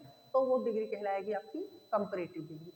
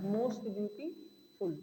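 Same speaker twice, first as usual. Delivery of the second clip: slow and deliberate; 3 semitones lower, 3 dB quieter, much slower than usual. Shown as a demonstration. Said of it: "teacher repeats example slowly".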